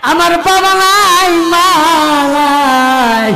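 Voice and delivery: high, drawn-out wailing sermon chant; tearful plea. Acted. Orphaned nephew pleading with his uncle, in an acted tearful wail. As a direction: cry it out in long, pleading, acted wails. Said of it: "চোখের পানি ছেড়ে কাঁদে আর বলেন".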